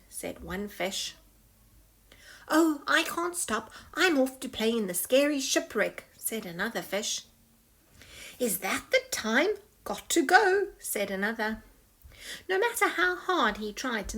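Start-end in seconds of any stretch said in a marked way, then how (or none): 2.5-6.1 excited. Acted. Excited fish voice. 8.4-10.7 hurried. Acted. Hurried excuse.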